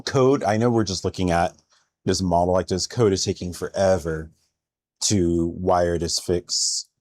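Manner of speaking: talking while flossing teeth; mid-floss, mouth busy; using a water flosser. Real, not acted. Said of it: "Sorry, I'm flossing my teeth".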